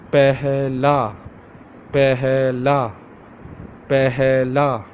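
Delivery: Pehla drawn out as "peh-heh-la"; Urdu word. Shown as a demonstration. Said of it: "Repeat after me".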